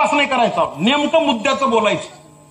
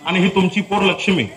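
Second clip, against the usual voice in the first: a hint of the old servant mother begging; mild plea of a worn-out maid handing over her daughter; pleading poor mother; 3 semitones lower than usual. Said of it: "त्या चित्रपटातला हा dialogue आहे".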